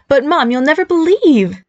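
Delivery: high, drawn-out excited tease; slow, suspenseful lead-in to big news; dramatic build-up. A narrator's reading. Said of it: "She paused for dramatic effect".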